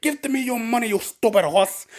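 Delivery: high, loud, drawn-out rant at a horse; quoted yell. Retold or imitated. Narrator repeating the boss's line, shrill yelling. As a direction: yell at the ride like a petty brute. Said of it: "that phrase is stuck in my brain".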